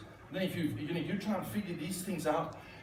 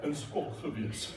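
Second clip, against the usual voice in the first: put-on Dutch accent; 5 semitones lower, 3 dB quieter, slower than usual. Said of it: "How do they say that?".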